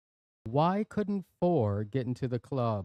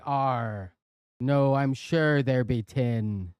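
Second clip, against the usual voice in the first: pirate voice; slower than usual. Acted. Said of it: "we have to do that joke in a pirate voice".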